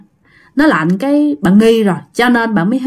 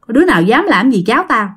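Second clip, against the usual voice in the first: higher-pitched protective warning; retold defiance, raised in pitch; fierce uncle; 5 semitones higher, faster than usual. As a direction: imitate an uncle challenging unseen threats. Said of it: "mặt bác hai dữ lắm".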